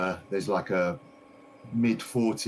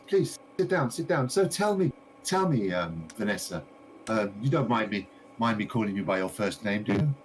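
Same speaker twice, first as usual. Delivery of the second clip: gushing shopkeeper lady; 2 semitones higher than usual. Acted. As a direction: play the delighted lady greeting her customer. Shopkeeper chats eagerly.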